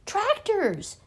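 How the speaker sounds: sharp high shout of alarm. A narrator's reading. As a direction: yell the warning. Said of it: "shouted Mister Fox".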